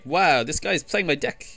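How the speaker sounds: slow, lightly put-on amazed streamer; Swim. Player mimics a streamer watching his deck played, light impression. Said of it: "that was my Swim impression".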